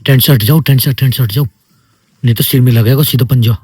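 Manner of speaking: urgent loud warning. Real, not acted. Bear outside tent, ordering kids.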